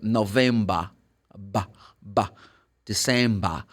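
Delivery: "November" and "December" ending in bah, no r; British open ending. Shown as a demonstration. Teacher models British month names, r dropped. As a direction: open the last syllable to "ba". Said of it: "This is British".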